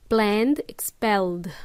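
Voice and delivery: "Planned, expelled" ending in firm voiced D; hard D ending. Shown as a demonstration. Teacher showing D for dog, hard D endings. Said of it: "say it with a harder D".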